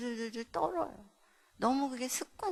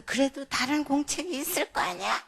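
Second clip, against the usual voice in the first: louder, higher scolding retort; retold scolding; 4 semitones higher, 7 dB louder than usual. Mother scolds child for notebook excuse, raised voice. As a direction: imitate a parent telling off a child. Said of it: "제가 야단을 쳤어요".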